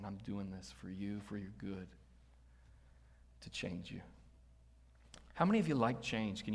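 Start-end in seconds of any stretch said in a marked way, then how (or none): 0.0-4.0 soft, tender reassurance; gentle God's voice. Retold or imitated. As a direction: speak softly as a loving father.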